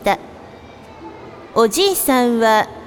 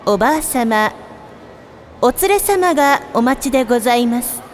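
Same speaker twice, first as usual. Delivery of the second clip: polite sing-song store paging voice; department store announcer. Acted. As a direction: page a customer over the store speakers.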